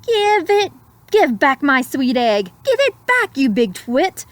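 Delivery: high, insistent scolding; a mother bird scolding the hawk who took her egg; angry demand. Acted. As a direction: snap at the hawk to give it back. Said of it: "flew up in a snit".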